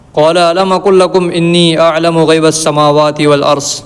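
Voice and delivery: slow, drawn-out chanted Arabic verse; Quran recitation. Acted. Teacher reciting God's words to students, slow chanted recitation. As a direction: recite it unhurried, like tilawat.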